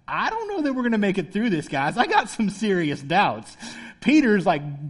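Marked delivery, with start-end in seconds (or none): 0.1-3.6 lightly acted doubter, dragging the last words; doubting disciple. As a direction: voice a hesitant, doubtful follower with rising pitch. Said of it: "the doubting one's like".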